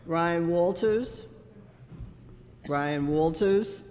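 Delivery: slow calling out with rising end; drawn-out questioning roll call; roll-call name check. Real, not acted. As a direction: call the name slowly, asking if they're present. Calling absent member at roll call.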